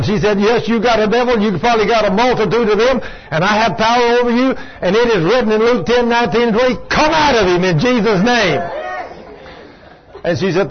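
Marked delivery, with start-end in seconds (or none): 0.4-8.6 higher, insistent retort with authority; re-enacted casting-out, building to the command; retold exorcism rebuke. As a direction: imitate a woman commanding a devil. Retold woman rebukes the devil.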